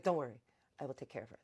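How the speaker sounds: lightly acted calm caretaker; calm reassurance. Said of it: "his calm voice".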